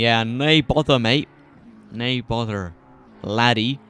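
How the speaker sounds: a playful, lightly put-on Scottish accent. Shown as a demonstration. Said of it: "Sounds like Scots to me".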